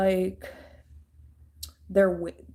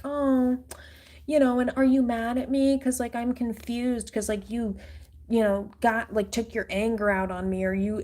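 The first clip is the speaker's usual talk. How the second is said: higher, whiny fake confusion; mock confused voice; 3 semitones higher than usual. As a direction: play dumb in a lightly raised whine. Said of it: "I'm just saying, like".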